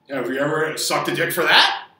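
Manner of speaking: ordinary talk, nothing marked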